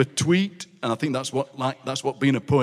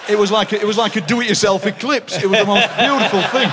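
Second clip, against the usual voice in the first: laughing exclaim; 6 semitones higher, 4 dB louder than usual. Real, not acted. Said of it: "laughs at his joke".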